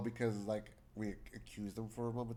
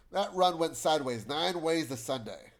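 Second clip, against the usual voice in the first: loud, higher-pitched complaint; raised, exasperated voice; agitated outburst; 5 semitones higher, 9 dB louder than usual. Acted. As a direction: vent loudly about a botched job. Angry game character vents.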